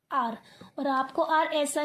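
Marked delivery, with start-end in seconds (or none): 0.1-0.4 आर said alone as a clear, isolated sound; teacher models the letter आर on its own. Shown as a demonstration. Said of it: "जहाँ पर आर की sound आती है वहाँ पे". (आर की आवाज़ अलग से साफ़ बोलना)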